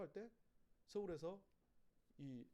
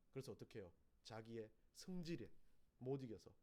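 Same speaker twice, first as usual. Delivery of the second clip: usual speaking voice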